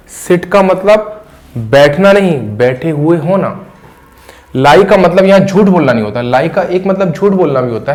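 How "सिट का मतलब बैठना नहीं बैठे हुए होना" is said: slow for emphasis. Shown as a demonstration. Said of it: "मेरी बात पर, अ, गौर किएगा।".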